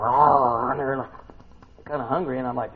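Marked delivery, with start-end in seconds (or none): 0.0-0.7 loud, playful imitated roar; mock lion roar. Preacher imitating lions in the pit, mock roar. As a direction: roar briefly like a hungry lion. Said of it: "lions down there going".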